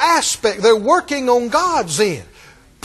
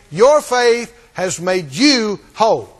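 slow emphatic; 2 semitones lower, slower than usual. Acted. Slow drawn-out final repeat.

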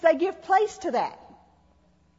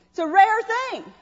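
laughing; 5 semitones higher, slower than usual. Real, not acted.

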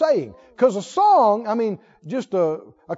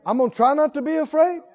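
half-hearted resolve; 3 semitones higher, faster than usual. Acted. Timid rewording set against bold psalm.

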